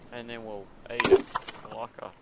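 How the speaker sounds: lightly put-on Australian accent; butchered, half-hearted Australian; mock Australian accent. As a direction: attempt a rough Australian accent. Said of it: "sorry for butchering your accent".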